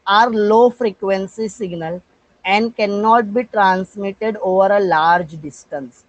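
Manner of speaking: very slow, word by word, dictating notes; slow dictation. Acted. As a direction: read each word out so students can write it down. Teacher dictating notes in English.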